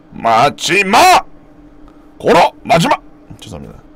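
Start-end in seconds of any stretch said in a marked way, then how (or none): 2.2-3.0 high, loud Gyeongsang yell; 경상도 사투리로 높고 크게 외치기; Gyeongsang dialect yell. Retold or imitated. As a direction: shout it like a rowdy Gyeongsang man. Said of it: "경상도 마!".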